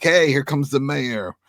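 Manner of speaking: drawn-out playful announcement; mock calling out. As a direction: call it out slowly, as a joke. Imagined greeting of wheelchair-bound mayor.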